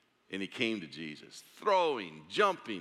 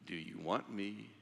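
whispered question; 3 semitones lower, 10 dB quieter than usual. Acted. Preacher repeating Jesus' question to listeners, whispered. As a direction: breathe the question almost silently. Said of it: "I can't get over that question".

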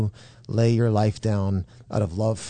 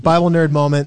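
laughing; 4 semitones higher, 7 dB louder than usual. Real, not acted. Laughing at own nerdiness.

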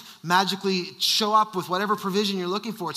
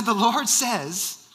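slow, drawn-out attempt at Nigerian; measured, badly faked Nigerian accent; Nigerian accent retry; 2 semitones higher, much slower than usual. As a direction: imitate a Nigerian man, slowly and firmly. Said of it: "that's not a good Nigerian accent".

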